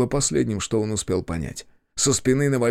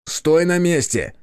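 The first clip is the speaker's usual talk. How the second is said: slow, loud, higher barked command; barked order; 7 semitones higher, 4 dB louder, slower than usual. Acted. Yurkan orders the man below to stay, barked and loud. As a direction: bark it down the stairs. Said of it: "рявкнул Юркан".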